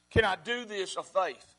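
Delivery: each word set down slowly and deliberately; slow it right down, let "faith" land; slow, weighed question. Shown as a demonstration. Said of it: "asks the question twice".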